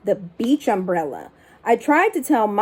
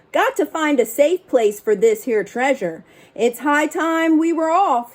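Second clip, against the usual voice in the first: pirate announcement; 4 semitones higher than usual. Acted. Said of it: "he announced".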